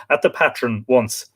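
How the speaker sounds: storytelling read with lifted phrase openings; reading aloud. Acted. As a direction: read out a local legend, phrase by phrase. Reads folklore account aloud.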